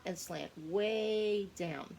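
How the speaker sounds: "way down" stretched out slowly; slow demonstration. Shown as a demonstration. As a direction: drag out "slant way down". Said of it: "Our lowercase y".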